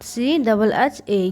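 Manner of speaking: drawn-out सीएचएचए for the class; teacher spelling aloud slowly. Shown as a demonstration. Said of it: "छ है यहाँ पे".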